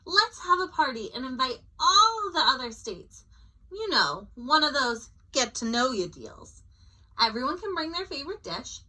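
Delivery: rushing out party ideas; eager planning. Acted.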